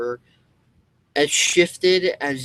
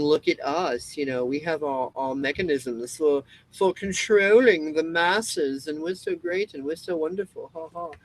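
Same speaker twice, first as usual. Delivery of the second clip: mock smug elite, pitched higher; hammed-up smug elite boast; 4 semitones higher than usual. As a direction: sneer it out like a gloating elite. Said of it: "up on their pedestals going".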